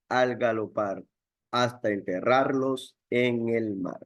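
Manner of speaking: a lightly performed classroom recitation; poem recitation. Acted. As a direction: recite it like a ballad, drawing out the rhythm.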